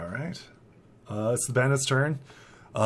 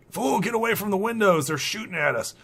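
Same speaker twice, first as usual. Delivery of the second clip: raised, urgent warning; Farmer Ed; 9 semitones higher, 4 dB louder than usual. Acted. Farmer warning of shooting at the windows, urgent raised voice. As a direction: scold and warn in a higher, louder voice. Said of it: "Farmer Ed's like".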